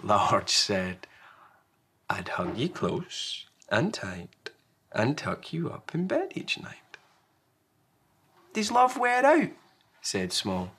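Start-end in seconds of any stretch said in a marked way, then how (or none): 2.1-7.0 put-on tuck the child in with words; Large, tender parent. Large comforts Small. 8.5-9.5 put-on high, louder child question; Small, worried little one.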